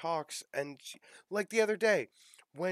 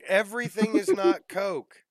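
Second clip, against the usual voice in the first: louder, firm, stress on is; emphatic insistence; 5 semitones higher, 7 dB louder than usual. Real, not acted. Friend insists to Southerners, loud and firm. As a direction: press hard on is. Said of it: "insisting on Coke usage".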